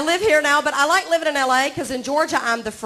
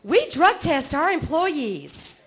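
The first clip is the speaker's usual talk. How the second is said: ad voice; much slower than usual. Retold or imitated. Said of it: "Stanley Steamer carpet cleaner commercial".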